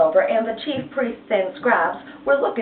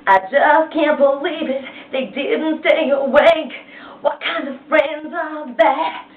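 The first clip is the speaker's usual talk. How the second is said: upset Jesus; 5 semitones higher, slower than usual. Acted. Jesus voiced, angry at friends.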